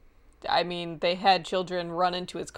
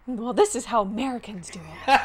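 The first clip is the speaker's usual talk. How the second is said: mock American tourist; 2 semitones higher than usual. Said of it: "who were the only ones to be like".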